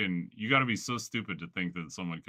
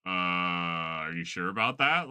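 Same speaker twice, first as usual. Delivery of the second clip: skeptical; slower than usual. Retold or imitated. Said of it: "rolling his eyes".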